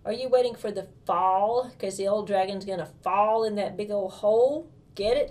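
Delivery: put-on child cracking a pun for her brother; joking. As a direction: land the pun with a grin. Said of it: "decided to make a joke".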